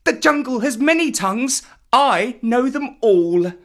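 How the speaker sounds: put-on high-pitched boy showing off; eager, delighted little know-it-all; boastful Mowgli. A narrator's reading. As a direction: proudly show off in a high young voice. Boy cub's boastful speech.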